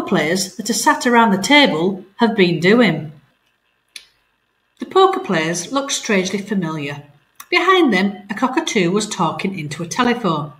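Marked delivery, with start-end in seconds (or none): 4.8-10.5 lively read-aloud storytelling; story narration. A narrator's reading. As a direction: tell the story to children at home. Teacher reading story aloud.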